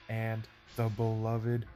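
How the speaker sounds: excited. Real, not acted. Callback to toe joint joy.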